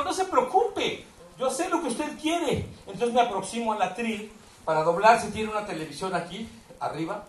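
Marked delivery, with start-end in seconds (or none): 0.0-2.7 high, slow, overly sweet assurance; higher and slower, syrupy mock politeness; mock servile reassurance. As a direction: play the eager helper, drawn out. Narrator quotes himself, reassuring gringo.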